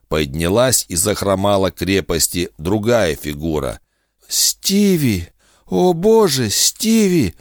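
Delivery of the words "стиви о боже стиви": moaning through a hand over mouth; horrified moan, hand over mouth. Acted. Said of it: "простонала Джесси, зажимая рот ладонью".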